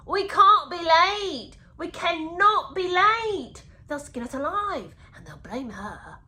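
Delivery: high, loud, drawn-out fretting; hammed-up dread, stretching every word; mock panic. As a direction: wail it in exaggerated alarm. Acting out the narrator's panicked self-talk, mockingly.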